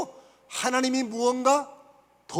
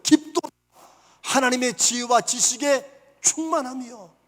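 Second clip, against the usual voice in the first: awed exclamation; 3 dB louder, slower than usual. Acted. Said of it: "사도 바울이 고백한 거예요".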